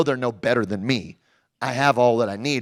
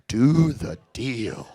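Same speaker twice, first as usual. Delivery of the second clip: slowly, word by word; much slower than usual. Retold or imitated. Writing the phrase down slowly, mulling each word. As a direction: spell it out as you write it. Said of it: "writing it down".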